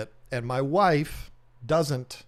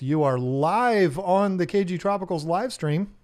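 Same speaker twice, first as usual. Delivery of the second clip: announcer voice; 4 semitones higher, 3 dB louder than usual. Acted. Announcing the caller on stream.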